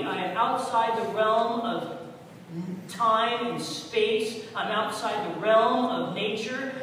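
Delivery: a hint of a commanding God voice; God speaking. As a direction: speak as God calling Elijah back. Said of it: "That's what God was telling him".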